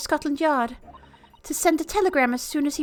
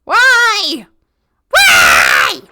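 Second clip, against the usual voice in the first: hammed-up wailing, louder and louder; overdramatic grief; 6 semitones higher, 7 dB louder, much slower than usual. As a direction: ham up the mourning cry. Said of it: "Little dramatic there".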